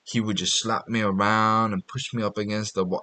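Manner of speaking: soft, slow confiding girl voice, barely put on; a hint of a girl confessing quietly; softly mimicking a girlfriend's complaint; lightly imitated girl. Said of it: "this girl's like".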